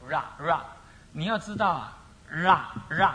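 ra said twice as a rolled la; 罗 read as ra. Shown as a demonstration. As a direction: show 罗 sounding like ra. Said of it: "罗字啊，不应该念罗". (罗念作ra)

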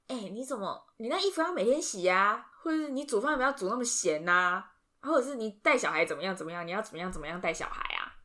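lightly mock the scolding, 你那衣服要每天洗啊 lifted on 衣; nagging mother-in-law. Wife imitating her mother-in-law's scolding, mild mock nag. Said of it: "如果我的婆婆骂我说".

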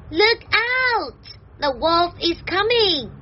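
high-pitched example of a warning; acted urgent alarm for learners. Shown as a demonstration. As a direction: call out the danger in a high voice. Acts out warning sense of phrase.

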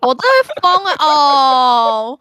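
loud, high cry of exasperation; exasperated outcry. Real, not acted. Fed up with the co-host's generation gap, a loud high outcry. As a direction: throw up your hands and yell.

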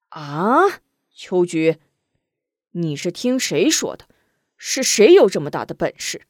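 anxious urgent father; shocked father. Acted. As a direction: demand answers in alarm. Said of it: "又惊又急".

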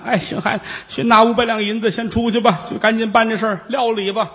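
the aunt hands over the silver, resigned; old aunt. Acted.

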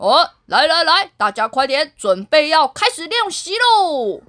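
a hint of a commanding general; lightly voiced army general rallying the troops; mock general calling his men; general's voice. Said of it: "大将军的声音".

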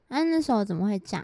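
overdone coy voice; sultry mock concern; exaggerated flirty voice. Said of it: "她声音是不是".

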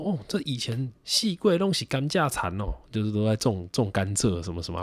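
put-on chatty auntie recalling the old days; shopkeeper auntie. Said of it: "他说".

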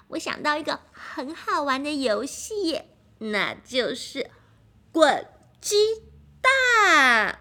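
put-on excited child voice. Piggy proposes rolling eggs game.

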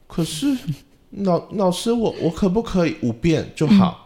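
a little student begging the teacher, drawn out; pleading child voice. Retold or imitated. Student asks the drum teacher to do fewer rounds, high pleading child voice. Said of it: "他就说".

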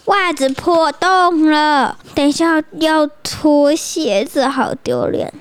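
slow, mock-worried whine; embarrassed kid. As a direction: fret slowly about the sock. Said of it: "袜子就说". (袜子破洞的孩子慢慢地发愁)

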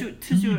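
toujours with a hard, heavy English T. Shown as a demonstration. Showing how the English say French, toujours with a heavy T. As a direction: lean hard on the T in toujours, British-style. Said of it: "特的音很重".

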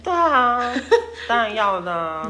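high giggling laugh through the words; real amused laughter. Real, not acted. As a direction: laugh while admitting it. Laughs at own plan.

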